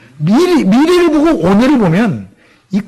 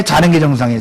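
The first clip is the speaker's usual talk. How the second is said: 자는 stressed, the pitch falling lower; falling question; 4 semitones lower, faster than usual. Shown as a demonstration. Preacher offering the wrong choice, falling stress on 자는. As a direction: lean on 자는 and let the line drop. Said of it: "여러분은 집에 잡니까?".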